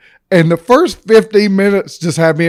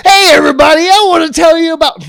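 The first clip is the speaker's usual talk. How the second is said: TikTok intro voice; 11 semitones higher, 6 dB louder than usual. Retold or imitated. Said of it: "And I'm sitting there like".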